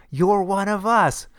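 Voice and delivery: high, slow and eerie; eerie whisper voice. Retold or imitated. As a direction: breathe it slowly like a creepy stranger. Repeated eerie line.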